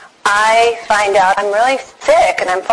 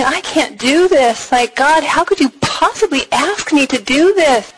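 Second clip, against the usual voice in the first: higher, mock-wailing protest to God; retold tearful plea; 5 semitones higher than usual. She retells begging God not to ask this, mock-tearful. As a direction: plead it higher, imitating tears without crying. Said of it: "I was bawling. I was in tears going".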